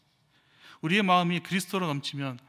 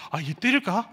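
mock angry mutter; 4 semitones higher, 5 dB louder than usual. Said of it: "너무 막 화가 나가지고".

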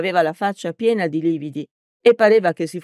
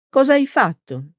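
high-pitched, concerned question; startled question; 9 semitones higher, 3 dB louder than usual. A narrator's reading. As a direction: ask it in sudden alarm. Priest questions the hurt young man.

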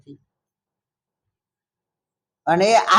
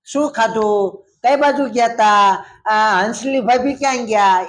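chatty turtle; 3 semitones higher than usual. Acted. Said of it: "એવું પૂછ્યા જ રાખે".

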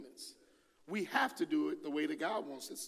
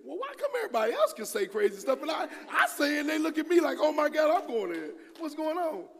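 higher and louder, a mock-outraged rant; indignant outburst; 10 semitones higher, 8 dB louder than usual. Preacher replays his own complaint about being judged, mock outrage. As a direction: rant like a wronged man.

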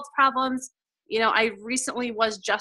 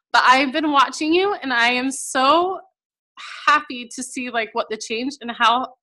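emotional reading. Real, not acted. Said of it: "so emotional".

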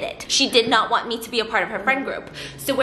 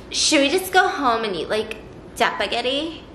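put-on Mean Girls-era teen. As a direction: imitate the coolest friend making a suggestion. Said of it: "how everybody talked back then".

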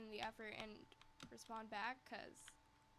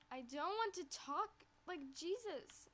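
exasperated, higher and louder; annoyed; 5 semitones higher, 4 dB louder than usual. Retold or imitated. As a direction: snap back in frustration. Retold heated text reply.

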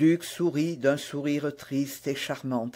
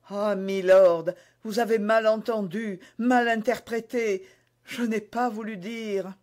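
higher-voiced queen's mild protest; 4 semitones higher than usual. Queen protests she was misunderstood. (reine qui proteste, voix plus aiguë)

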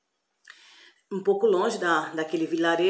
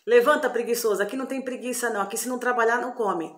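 mild acted scolding, a bit higher; bossy wake-up order; 4 semitones higher than usual. Sorcerer's wife rousting the lazy boy from bed, mildly bossy.

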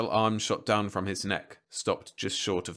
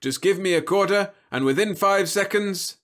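smooth robot salesman; 11 semitones higher, 7 dB louder than usual. A narrator's reading.

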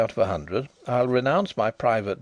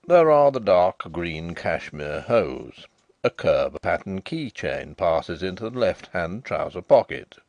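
lightly voiced deferential manservant, a little lower; a hint of a proper butler reciting; respectful butler; 4 semitones lower, slower than usual. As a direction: report each detail like a careful valet.

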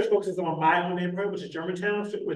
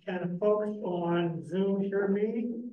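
drawn-out, higher-pitched audio check; slow checking call; 4 semitones higher, much slower than usual. Real, not acted. Speaker checking that the Zoom audience can hear, slow drawn-out call. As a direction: stretch out the question for distant listeners.

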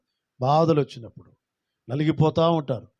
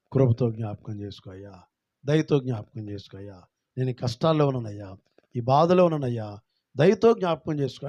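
humble plea; 3 semitones lower than usual. Acted. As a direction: pray it humbly, almost to yourself. Voices suffering families praying.

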